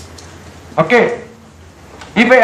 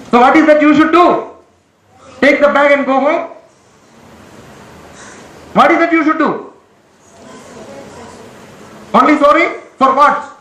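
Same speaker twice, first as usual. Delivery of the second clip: raised, insistent scolding voice; 3 semitones higher than usual. Real, not acted. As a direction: press them hard for an answer. Teacher scolding, demanding answer.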